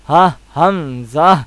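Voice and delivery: ہا، ہمزہ said slowly with a breath on each h; haa from the belly. Shown as a demonstration. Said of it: "پیٹ سے ادا ہوگا".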